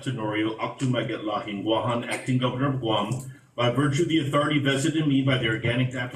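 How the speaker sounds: solemn official proclamation; notary reading. Acted. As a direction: declare it with formal authority. Governor proclaims the month.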